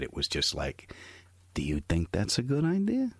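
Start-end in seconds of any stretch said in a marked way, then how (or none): 1.5-3.1 quietly menacing dad. Retold or imitated. Dad going quiet with his son, softly menacing. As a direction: ask it softly, like a mafia boss. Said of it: "when he got quiet".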